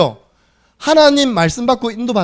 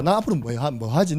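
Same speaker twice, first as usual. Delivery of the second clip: low, softer self-questioning; listless musing; 4 semitones lower, 5 dB quieter than usual. Retold or imitated. Preacher as a freshman with no motivation, listless musing. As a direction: wonder aloud without energy, pitched down.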